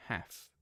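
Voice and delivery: "half" with a short flat a as in cat; other accent's half. Retold or imitated. Streamer trying chatter's accent, "half" with short a. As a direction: say "half" as haff. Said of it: "in your accent".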